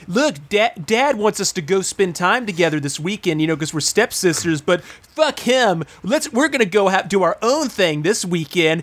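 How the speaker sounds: a hint of a whiny teen girl, going high at the end; lightly put-on stepsister voice; mock rebel teen girls. Sending up stepsisters who defy their dad, with a rising whine. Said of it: "They're like".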